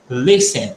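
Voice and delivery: "listen" said LISS-en, no t; silent T. Shown as a demonstration. Teacher modelling the word for students, silent T. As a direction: drop the t in "listen". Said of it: "vai falar listen".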